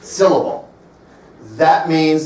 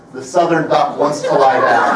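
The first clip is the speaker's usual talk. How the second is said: botched phrase. Retold or imitated. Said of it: "what he ended up saying was".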